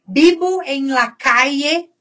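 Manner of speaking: "calle" said "caye", with a y sound; ieísmo. Shown as a demonstration. Teacher reading the student's sentence aloud, with ieísmo. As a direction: say it "vivo en la caye". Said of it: "aí eu tô falando com ieísmo".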